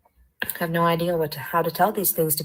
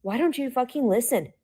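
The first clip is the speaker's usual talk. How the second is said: angry; 6 semitones higher than usual. Real, not acted. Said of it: "I'm fucking angry right now".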